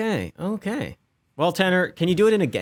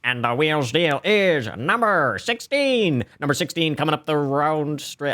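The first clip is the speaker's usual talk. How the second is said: announcer voice. Pretend. Game show wheel announcement.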